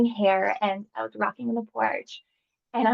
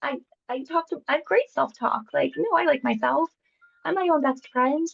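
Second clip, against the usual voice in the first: confident self-talk; 6 semitones higher than usual. Retold or imitated. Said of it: "And I thought, like".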